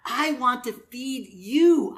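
slow, earnest offer with weight on YOU; selfless love. Acted. Preacher voicing the opposite of selfishness, loving and earnest. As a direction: stretch it out, giving to the other person. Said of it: "The opposite of that is love".

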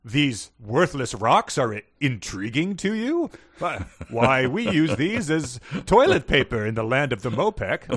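slow, lofty voice; sneering aristocrat, drawn out; haughty alien noble. Retold or imitated. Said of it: "the Garrett P. Service thing of being like".

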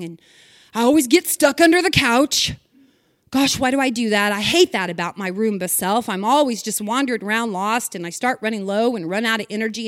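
self-pitying Roomba. Pretend. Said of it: "If your Roomba started talking like this".

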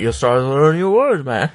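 slurred mock Australian, lightly done; drunk Australian accent. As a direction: play a tipsy Australian. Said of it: "British people who were drunk".

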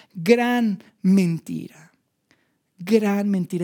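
slow whisper, gran mentira; whispered verdict. Acted. Preacher warns the congregation in a slow whisper. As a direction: breathe it out as a grave warning.

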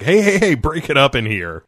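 loud, high calls to break it up; hammed-up shout of hunters storming the room; mock bust-in. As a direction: bust in like a bouncer. Mock vampire hunters busting in.

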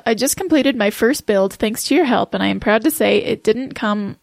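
speaking with a sticky, stuck tongue; words thick from a dry, gluey mouth; tongue sticking to mouth. Real, not acted. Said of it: "Are you having a trouble, some trouble reading?".

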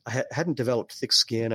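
talking through hiccups; a hiccup breaks the words. Real, not acted. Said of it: "I got the hiccups all of a sudden".

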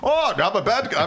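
high mock Polish accent; lightly put-on Polish accent. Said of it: "I can't do a Polish accent".

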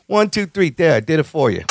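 put-on offhand quote in a slipping Italian accent. Fan quoting the hero's countdown to guards, light Italian accent. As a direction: imitate the hero with an accidental hint of Italian. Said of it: "Why did you give him an Italian accent there?".

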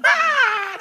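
high imitated crowd scream; high imitated ride scream; mock scream. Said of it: "they start, start screaming".

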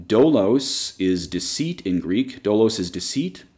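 Dolos said slowly as DOH-los with a rise; Greek word spelled out. Shown as a demonstration. Teacher shows the class the Greek word Dolos, slow and careful. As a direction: sound out Dolos slowly for learners. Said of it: "Few words we can look at".

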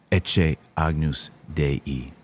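slow, careful Latin pronunciation of ecce agnus Dei; slow Latin response. Shown as a demonstration. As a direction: spell out ecce agnus Dei slowly, syllable by syllable. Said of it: "I teach you how to say all the responses in Latin phonetically, slowly".

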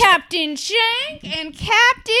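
slow, high captain-on-the-intercom voice; pilot announcement voice. Pretend. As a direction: announce it like a cheesy airline pilot. Playing airline pilots over intercom.

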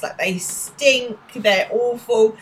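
slow, drawn-out disgust. Retold or imitated. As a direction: drag it out in revulsion. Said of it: "I was like".

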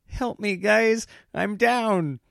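high, whiny little plea for help; whimpering wimp. Retold or imitated. Wife mocking husband's gaming, high whimpering plea. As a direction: imitate a sniveling gamer begging his buddies. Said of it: "her impression of me is just this little whimpering".

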